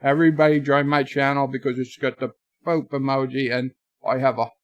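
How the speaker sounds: put-on accent, low-key and halting; mock accent, trailing down in pitch and volume; Anti-tracker. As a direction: lightly imitate a streamer's accent in short, spaced bursts. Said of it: "Anti-tracker accent?".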